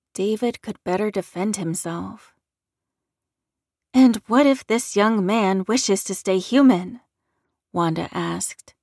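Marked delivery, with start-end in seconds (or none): 3.9-7.0 loud, firm protective challenge. Acted. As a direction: stand up for him, firmly.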